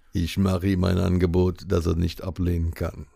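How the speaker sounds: low, soft mafia boss voice; Godfather voice. Acted. Host performs Godfather quote.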